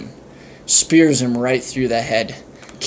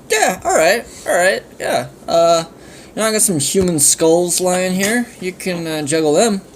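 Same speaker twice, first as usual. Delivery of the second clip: dragon voice; 6 semitones higher than usual. Acted. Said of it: "And Dragon's like".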